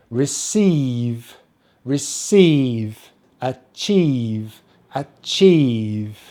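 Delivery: "Receive", "achieve" with long, stressed EE; long EE demo. Shown as a demonstration. Teacher giving E-I and I-E examples, long EE. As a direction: draw out the final EE in each word. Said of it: "it has the same pronunciation".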